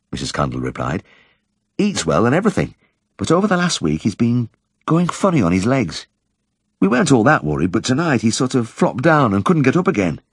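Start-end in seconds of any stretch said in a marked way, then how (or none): 1.8-10.2 higher, gentle housewife voice; a timid, friendly woman at her door; shy Yorkshire housewife. A narrator's reading. Vet's caller welcomes him in, shyly polite. Wife describes dog's trouble.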